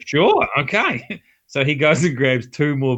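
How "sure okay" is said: mock meek agreement.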